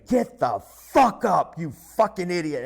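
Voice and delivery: retold screaming. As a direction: bark it at the rookie referee. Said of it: "they're screaming at me".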